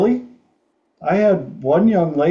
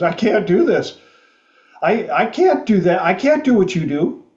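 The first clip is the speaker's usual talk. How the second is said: upset intern; 5 semitones higher than usual. Retold or imitated. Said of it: "she is bawling".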